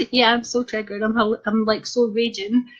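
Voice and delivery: dry mock agreement; sarcastic.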